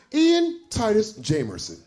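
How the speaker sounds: lightly put-on formal name delivery; proper name announcement. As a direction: say the full name high and proper. Says own name as non-black sounding.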